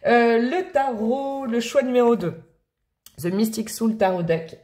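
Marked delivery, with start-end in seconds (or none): 3.2-4.6 French speaker's attempt at English; English accent. Shown as a demonstration. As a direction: read the deck title in French-tinged English. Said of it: "avec mon accent anglais légendaire". (accent anglais à la française)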